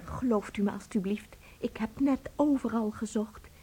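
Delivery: soft unvoiced plea; hushed desperate appeal; pleading whisper. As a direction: beg him quietly to believe. Wife begs to be believed.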